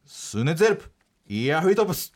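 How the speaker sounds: スネゼルプ イヤフリトプス as reversed gibberish; backwards speech. Shown as a demonstration. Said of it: "Spotifyプレゼンツ逆からいくと".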